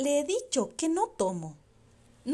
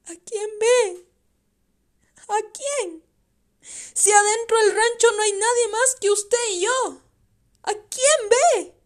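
high, anxious questioning; young son scared by his father's visions; frightened child; 8 semitones higher, 8 dB louder than usual. Acted. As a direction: ask him fearfully who he sees.

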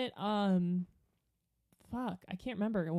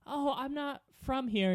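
slightly higher, polite little reply; mild, courteous Midwestern retort; 4 semitones higher than usual. Retold or imitated. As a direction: answer meekly as a polite out-of-towner. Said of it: "like, Midwestern polite".

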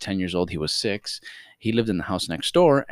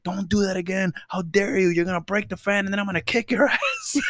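high-pitched indignant scolding; mock-stern threat, pitched up; imitated scolding grandfather; 11 semitones higher than usual. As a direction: scold the kids like an outraged grandfather.

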